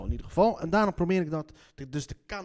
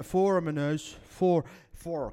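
overdone Leiden R in "voor"; exaggerated Leiden accent; much slower than usual. Real, not acted. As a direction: lay the Leiden accent on thick. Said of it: "Kijk, dat overdrijf ik weer".

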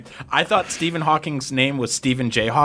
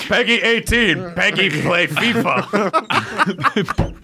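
slow, laughing caveman speech; playful caveman, words dragged out; 5 semitones higher, much slower than usual. Pretend. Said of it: "like a caveman".

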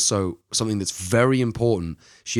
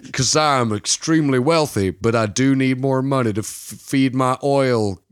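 slow, drawn-out mock Texan drawl; rich Texan; 3 semitones higher, slower than usual. Archie pitching his oil farm to investors, rich Texan accent. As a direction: ham up a wealthy Texan accent. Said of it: "a rich, rich Texan who's like".

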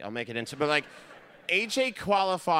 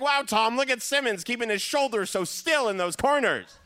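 announcer voice; 4 semitones higher, 4 dB louder than usual. Retold or imitated. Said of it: "Bob Costas, would be like".

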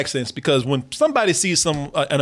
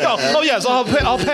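high, hammed-up posh British accent; mock proper British accent; 8 semitones higher than usual. Butler approving the proper word au pair, mock British accent. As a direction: play a fussy British butler, pitched up.

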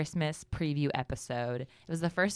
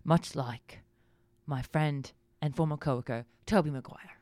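Michael Caine impression. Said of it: "let's talk like Michael Caine".

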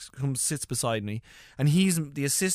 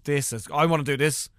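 giddy outburst climbing higher and louder; acted excitement; 7 semitones higher, 7 dB louder than usual. Gardener gushing on his first film set, acted excitement. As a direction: get louder and higher as you gush.

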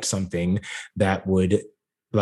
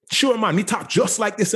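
hammed-up street voice, much higher; mock urban voice; 12 semitones higher than usual. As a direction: sarcastically play the "urban" guy they want. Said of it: "their way of saying urban".

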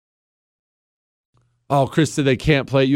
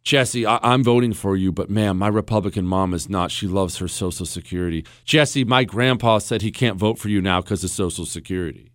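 lightly voiced regretful supporters, lower; apologetic voters; 7 semitones lower, 4 dB quieter than usual. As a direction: let them down gently, low and softening. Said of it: "coming up to me saying".

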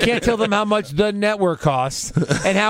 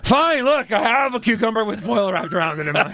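exasperated Barrett. Retold or imitated. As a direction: blurt it out fast, fed up. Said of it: "he's finally like".

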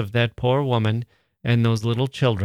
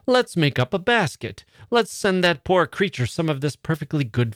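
eager bustling mother; 4 semitones higher than usual. Acted. Mrs Sheridan's brilliant idea.

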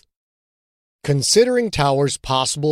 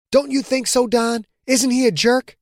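higher; 9 semitones higher than usual. Acted. Quentin seeks agreement, higher.

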